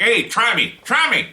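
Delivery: loud, high taunting challenge; mock tough guy. Prison boss daring inmates, mock tough-guy taunt. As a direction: play a badass daring someone. Acts badass running the prison.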